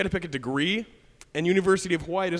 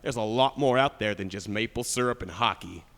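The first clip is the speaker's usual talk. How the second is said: stern husband; 6 semitones lower than usual. Retold or imitated. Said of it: "looks at me dead in the eye and goes".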